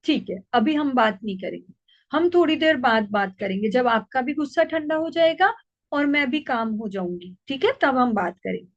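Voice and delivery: calm her down tenderly; loving, soothing. Shown as a demonstration. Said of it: "फिर हमने प्यार से कह दिया कि". (गुस्साए बच्चे को प्यार से शांत करती माँ)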